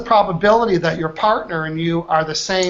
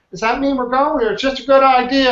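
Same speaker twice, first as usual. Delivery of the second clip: much higher, pressing for a clear answer; raised, pointed question; 7 semitones higher than usual. Shown as a demonstration. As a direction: pin the partner down with a high, probing question. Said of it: "your job will be to say".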